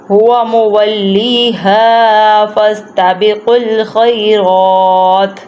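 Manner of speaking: slow recitation, "الْخَيْرَاتِ" ending on a bare t; stop on last letter. Shown as a demonstration. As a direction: draw out "الْخَيْرَاتِ" and drop its final vowel. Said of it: "یہاں پہ ہم نے حرکت کو نہیں پڑھنا". ("الْخَيْرَاتِ" کی آخری حرکت گرا کر وقف)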